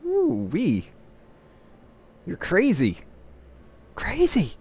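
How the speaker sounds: mock a film character shouting you're crazy; movie quote. Player quotes a movie at reckless opponent, hammed-up high yell. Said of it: "I forgot what movie that's from".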